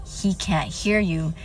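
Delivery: slow, lightly voiced demon taunt; demon, retold. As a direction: draw it out as the demon's cold answer. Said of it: "the fucking demon".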